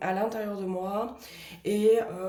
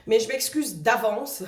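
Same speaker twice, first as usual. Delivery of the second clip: laughing apology. Real, not acted.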